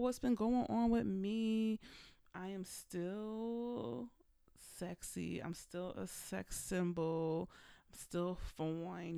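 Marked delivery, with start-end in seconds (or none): 2.3-9.2 sultry. Pretend. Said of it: "bragging about being sexy".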